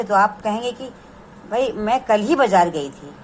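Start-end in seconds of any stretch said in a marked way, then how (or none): 1.5-3.1 ही held and pushed in "भाई मैं कल ही बाज़ार गई थी"; stress on ही. Shown as a demonstration. Teacher to students, stressing ही. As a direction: lean on ही to show emphasis. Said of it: "है ना, कल ही।".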